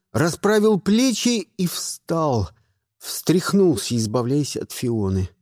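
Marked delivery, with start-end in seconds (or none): none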